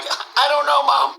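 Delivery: put-on childlike reply. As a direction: answer the lady like a lost child. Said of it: "I'm like".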